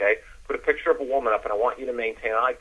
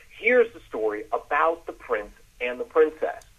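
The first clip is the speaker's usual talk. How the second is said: slow, higher, emphatic story opening; enthusiastic; 4 semitones higher than usual. Shown as a demonstration. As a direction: announce the tale slowly, relishing it. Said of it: "have some enthusiasm".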